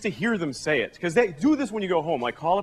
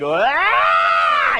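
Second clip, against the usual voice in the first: a loud open ah; vowel-only name shout; 4 semitones lower, 6 dB louder than usual. Pretend. Comic naming his baby with a shouted vowel. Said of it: "or just vowels, like".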